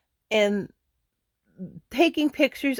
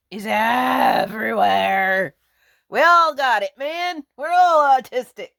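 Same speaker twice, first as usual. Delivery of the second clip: exclaiming; 4 semitones higher, 4 dB louder than usual. Real, not acted. Joking autism announcement.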